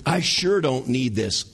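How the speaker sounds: mock praise of Google, dripping irony; sarcastic. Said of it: "do you hear the sarcasm in my voice".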